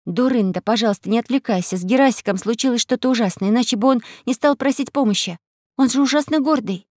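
put-on girl voice. Alice voice.

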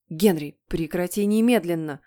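loud, stern mother's command; barked order. Acted. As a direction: bark it to stop the child at once. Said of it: "рявкнула мама". (строго рявкнув, по-матерински)

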